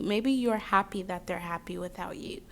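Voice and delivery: soft whispered reassurance; hushed, tender reassurance. Real, not acted. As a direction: whisper it gently to the viewer. Reassuring the viewer.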